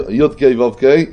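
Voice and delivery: יוד, קיי, וו, קיי as "yod kay vov kay"; self-corrected letter sequence. Shown as a demonstration. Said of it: "חוזר ליוד".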